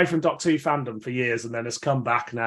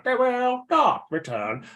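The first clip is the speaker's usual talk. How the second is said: slow, robotic Cyberman drone; monotone metal monster voice; 10 semitones higher, slower than usual. Retold or imitated. Fan mimicking a Cyberman line, slow and robotic. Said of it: "they go / they're instantly mimicable".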